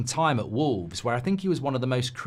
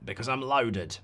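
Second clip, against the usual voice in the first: lightly voiced ruthless billionaire; a hint of a smug tycoon bragging; mock billionaire impression, barely changed; Sir Jim Radcliffe impression. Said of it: "I can do Sir Jim Radcliffe".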